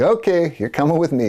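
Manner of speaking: lightly hammed-up policeman; mock cop. Cop arrests the roadie.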